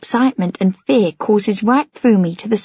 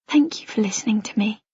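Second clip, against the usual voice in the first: whisper; 5 dB quieter than usual. Acted. Tearful thanks to Noah.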